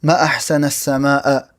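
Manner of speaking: ما أحسنَ السماءَ with a fatha ending أحسن and a fatha ending السماء; correct exclamation. Shown as a demonstration. Teacher showing students the correct exclamatory reading. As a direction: end both أحسن and السماء on a clear a sound. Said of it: "a fatha on as-sama".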